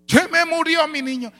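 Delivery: high, pained mother's cry; retold screaming. Mother whose child has died, acted screaming. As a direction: act out a mother crying out in grief. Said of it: "sale la hermana gritando".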